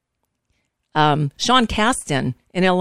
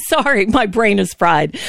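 laughing apology. Real, not acted. Laughs at own stumble.

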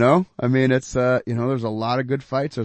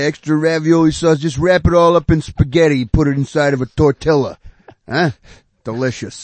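mock Italian; 4 semitones higher, 8 dB louder than usual. Joins the Italian food joke.

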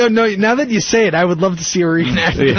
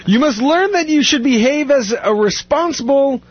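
stern judge; 4 semitones higher than usual. Retold or imitated. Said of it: "the judge said".

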